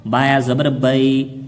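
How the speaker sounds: slow drawn recitation of बाया ज़बर बई; slow teacher demo; slow spelling. Shown as a demonstration. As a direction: spell each part slowly. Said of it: "थोड़ा जल्दी पढ़े".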